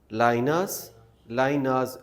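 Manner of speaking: "liners" with no r sound, said "lainaz"; silent r. Shown as a demonstration. Teacher models non-rhotic "liners". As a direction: drop the r in "liners". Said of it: "आर के बाद S है ना".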